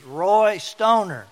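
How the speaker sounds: a mock shout of Roy Stoner, high and loud; exasperated shouting. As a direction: yell the name down the phone, hammed up. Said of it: "And he says".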